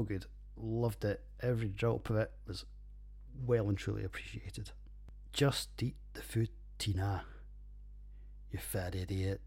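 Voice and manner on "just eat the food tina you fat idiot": mock Napoleon Dynamite. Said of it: "as Napoleon Dynamite never actually says".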